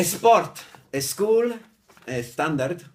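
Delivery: SPORT, SCHOOL, STANDARD said with an "eh" in front, high and loud; mock the Spanish learner's "es-port, es-cool, es-tandard"; loud, exaggerated "eh" before each S word; learners' extra E before S. Shown as a demonstration. Demonstrating learners' S mistake.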